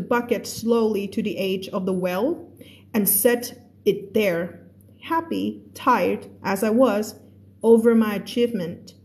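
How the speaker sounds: slow, careful read-aloud of a novel; teacher reading a story to a class. A narrator's reading. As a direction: read the passage slowly for learners. Reads The Little Prince aloud.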